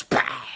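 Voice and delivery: shouted pow; loud punch sound. Retold or imitated. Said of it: "fazer igual o Stiglitz".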